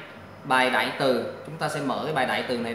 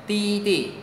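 "ti, ti" starting high with a firm fall; emphatic falling tone on "ti", then a short second; stressed fourth tone; 6 semitones higher than usual. Shown as a demonstration. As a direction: hit the first "ti" from high up. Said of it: "Thanh bốn, nhấn mạnh".

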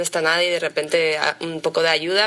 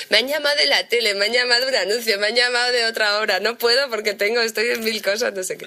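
quick, a little higher, rattling off offers in a light mock voice; imitating Juan; 4 semitones higher than usual. Teasing castmate mimics Juan listing his offers, quick and light. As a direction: playfully mimic a busy actor listing his jobs. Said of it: "No, anda, calla, Juan".

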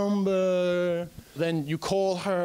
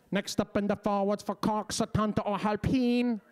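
announcer voice. Retold or imitated. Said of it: "cried out over the loudspeaker".

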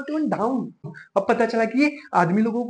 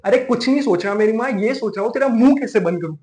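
louder, fed-up outburst; exasperated retort; 3 dB louder than usual. Acted. Boyfriend answers girlfriend's repeated prodding, exasperated and louder. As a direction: burst out as if pestered once too often.

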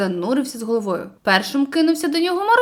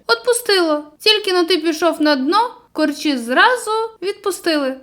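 guilty smile; 5 semitones higher than usual. Acted. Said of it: "винувато всміхнувся".

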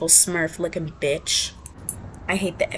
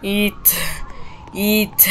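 whispered taunt; much slower than usual. Real, not acted. Player whispering at the enemy she is eating. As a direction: breathe it as a taunt.

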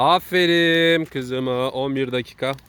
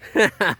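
mock laugh; 5 semitones higher than usual. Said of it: "Hadi bir gül bakayım".

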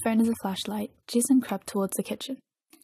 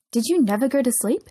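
dawning realization; 3 semitones higher, 4 dB louder than usual. A narrator's reading. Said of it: "gasped with realization".

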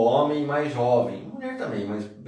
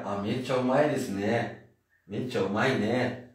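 relaxed "mecha umai ne", rising at the end; easy everyday chat tone; casual Japanese; 3 semitones lower, 4 dB quieter than usual. Shown as a demonstration. Teacher models casual Japanese phrasing for students. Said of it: "linguajar mais casual".

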